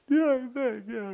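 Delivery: loud, high-pitched mock blubbering; put-on tearful squeak; imitated crying. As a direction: squeal it like someone overcome with tears. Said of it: "she starts crying".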